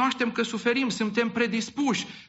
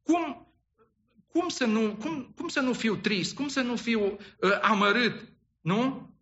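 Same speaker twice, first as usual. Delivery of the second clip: self-pitying complaint; 3 semitones higher than usual. Pretend. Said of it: "ne face să credem".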